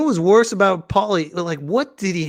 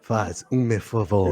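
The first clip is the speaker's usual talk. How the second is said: mock Spanish dub; 7 semitones lower, 5 dB quieter than usual. Dubbing the clip in Spanish.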